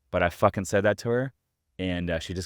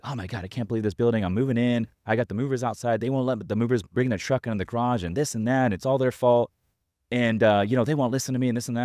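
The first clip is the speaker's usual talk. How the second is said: higher-pitched mock complaining; imitating pissed-off lady; 4 semitones higher than usual. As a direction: retell an annoyed rant, pitched up a little. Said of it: "pissed off".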